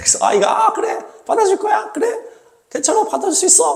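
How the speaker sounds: high coaxing parent voice.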